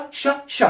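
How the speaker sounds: ش hushed as a long sh; sh sound. Shown as a demonstration. Teacher demonstrating the sound ش. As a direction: hiss out ش. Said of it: "makes the sound ش".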